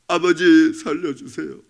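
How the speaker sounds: slow, earnest cry to the father; fervent plea. Retold or imitated. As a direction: let the prayer swell and beg. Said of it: "이 자매님이요".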